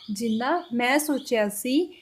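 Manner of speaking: slow Punjabi model phrase. Shown as a demonstration. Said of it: "Punjabi में कैसे बोला".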